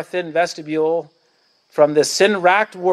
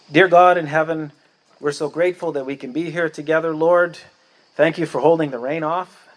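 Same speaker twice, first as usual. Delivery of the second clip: earnest prayer voice, addressing God. Real, not acted. Pastor leading the congregation in closing prayer, reverent. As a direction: speak to God humbly, gratefully. Let's pray.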